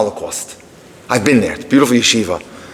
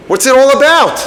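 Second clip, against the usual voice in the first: high, louder mock exasperation; exasperated outburst; 10 semitones higher, 4 dB louder than usual. Daughter venting at her father about the wasted date, exasperated. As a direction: throw up your hands at dad. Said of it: "she lets him have it".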